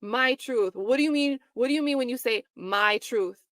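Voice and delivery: a hint of the lawyer, leaning hard on "my truth"; mock her scornful question; imitating a lawyer mocking a witness, lightly sarcastic; sarcastic mimicry. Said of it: "she says them so hard".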